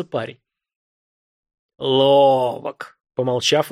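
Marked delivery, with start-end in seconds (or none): 1.8-3.0 smirking. A narrator's reading. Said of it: "усмехнулся старшой".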